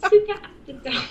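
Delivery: put-on British accent through laughter; laughing British. Giggling as they repeat the title, British accent. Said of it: "Do British accents".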